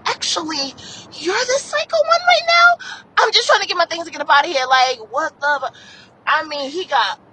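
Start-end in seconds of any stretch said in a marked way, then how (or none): 0.1-2.9 retold retort.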